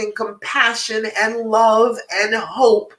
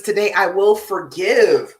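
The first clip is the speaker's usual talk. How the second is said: slow, firm reading of a card; reading the card aloud; 4 dB louder than usual. Shown as a demonstration. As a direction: read the affirmation out clearly and a bit louder. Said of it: "It says".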